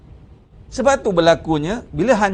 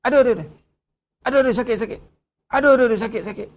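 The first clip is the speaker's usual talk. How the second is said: acted moans of pain, higher voice; mock pain; 5 semitones higher, much faster than usual. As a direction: act out aching joints, pitched up. Acts out stiff, painful joints. (pura-pura mengaduh sakit)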